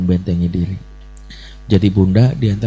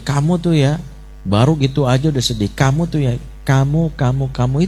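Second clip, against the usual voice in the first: put-on higher, scolding nag at a child, kamu over and over; mock-scold the child, jabbing each kamu; attacking nag; 4 semitones higher than usual. Parent demonstrating attacking language, a hint of nagging. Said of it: "Bahasa menyerang itu bisa gini".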